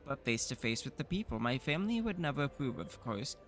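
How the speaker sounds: lightly voiced confident young heir; young noble voice. Offering himself as emissary, a lightly voiced confident young heir. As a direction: pitch yourself as an eager secret noble.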